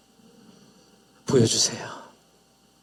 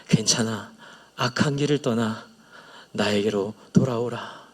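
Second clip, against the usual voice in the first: softer and lower, a father's gentle reassurance; tender voice of God; 5 semitones lower, 3 dB quieter than usual. Retold or imitated. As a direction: let each line settle, hushed and loving. God's tender words, retold.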